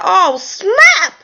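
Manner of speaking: high, loud laughing surprise; startled and amused at the sight; oh snap cried out high and laughing; surprised oh snap. Retold or imitated. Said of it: "I said".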